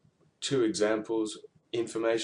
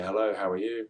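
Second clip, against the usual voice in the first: parrot voice. Shown as a demonstration. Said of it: "Think about a parrot".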